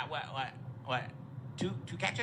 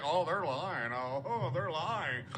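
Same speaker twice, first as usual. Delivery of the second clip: imitating Shanahan; 3 dB quieter, slower than usual. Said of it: "You know how he laughs through his nose?".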